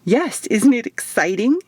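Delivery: eager, lifted question full of glee; bouncy excitement. Acted. Isadora gushing to Eva about the mission, bouncy and eager. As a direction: ask it like you're bouncing in place. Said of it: "Isadora asked with a little bounce".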